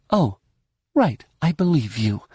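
dry sarcastic "Oh, right". Acted. Jaina mocking the Hutt's excuse, heavy sarcasm. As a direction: say you believe him while clearly not. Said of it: "loading her voice with sarcasm".

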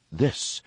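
"This" set apart with emphasis; emphatic. A narrator's reading. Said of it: "he said emphatically".

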